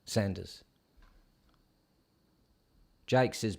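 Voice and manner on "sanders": Sanders with the a as in cat, not Saunders; Sanders said with a short flat a. Shown as a demonstration. Streamer settles that the colonel's name is Sanders. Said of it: "I think it's Sanders".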